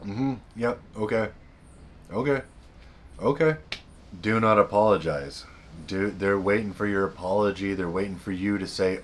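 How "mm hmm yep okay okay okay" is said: unbothered okay. Retold or imitated. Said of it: "just standing there like".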